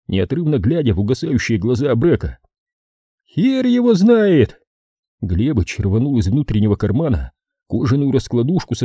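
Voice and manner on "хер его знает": slow, high loud snap; gruff retort. A narrator's reading. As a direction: bark it back. Глебыч резко отвечает. (грубо огрызнуться)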